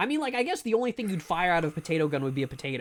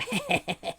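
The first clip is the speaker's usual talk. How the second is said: taunting laugh. Acted. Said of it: "you go".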